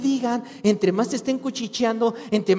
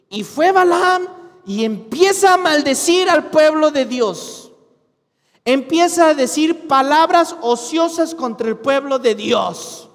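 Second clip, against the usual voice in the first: preaching louder; 4 semitones higher, 5 dB louder than usual. Real, not acted. Preaching at full force.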